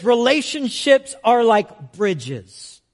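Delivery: slow, deliberate proverb; slow quote. Retold or imitated. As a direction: read the saying slowly. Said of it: "it says".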